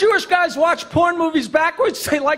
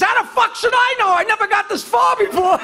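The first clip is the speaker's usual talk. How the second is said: exasperated outburst; 6 semitones higher than usual. Acted. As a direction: blurt it out indignantly. Exasperated Witness blurts out.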